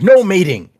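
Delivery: loud, high scolding like a period-piece governess; imitating a scolding governess, very emphatic. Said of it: "sound very emphatic and scolding".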